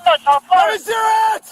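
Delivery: barked order at gunpoint; shouting command. Real, not acted. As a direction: shout it at the suspect. Officer yelling at suspect.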